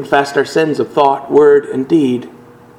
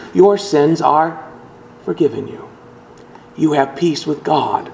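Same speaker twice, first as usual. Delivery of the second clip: gentle absolution; 3 dB quieter than usual. Acted. Pastor declares absolution.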